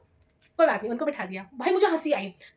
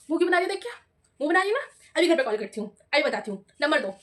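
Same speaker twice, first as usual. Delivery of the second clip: scolding teacher; 3 dB louder, faster than usual. Retold or imitated. Teacher threatening to call student's home, mock scolding.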